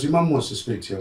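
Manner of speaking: mildly acted news-breaking; retold cousin. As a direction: pass it on in a lifted, imitating voice. Quoting cousin passing on news.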